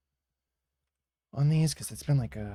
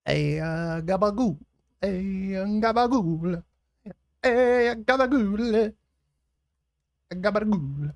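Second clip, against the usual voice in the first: high, loud New York caricature; hammed-up New York accent; 9 semitones higher, 10 dB louder than usual. Streamer repeating the New York gag, loud cartoon New York accent. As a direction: belt out a stretched New York gabagool.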